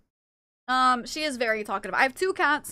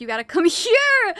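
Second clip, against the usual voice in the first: laughing quote; 6 semitones higher, 9 dB louder than usual. Retold or imitated. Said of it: "I'm just like".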